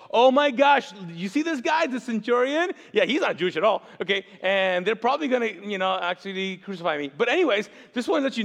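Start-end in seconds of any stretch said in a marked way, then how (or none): 0.1-3.8 excited Jesus. Retold or imitated. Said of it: "Jesus goes".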